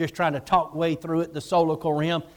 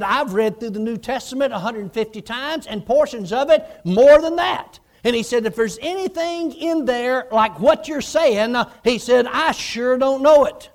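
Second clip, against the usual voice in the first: rising, louder protest; indignant protest; 5 semitones higher, 5 dB louder than usual. Retold or imitated. Hagin protesting to Jesus, rising indignant louder voice.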